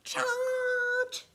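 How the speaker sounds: high, loud, long shout; rallying yell, held high; bellowed battle cry. A narrator's reading. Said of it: "and bellowed".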